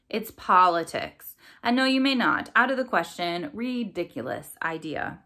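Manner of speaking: sneering refusal. Acted. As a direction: shut her down with cold scorn. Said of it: "sneered Corvus".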